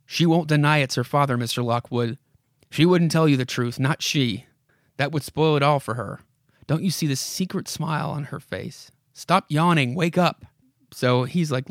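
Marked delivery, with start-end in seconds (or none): 0.1-10.4 dramatic comic-book narrator addressing a character; story narration. Acted. Narrator urges Mister Lockwood to look around, dramatic narration. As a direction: read it aloud with measured urgency.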